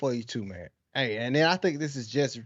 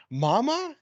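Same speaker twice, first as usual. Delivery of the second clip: mom coaxing; 7 semitones higher than usual. Retold or imitated. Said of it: "she'd be like".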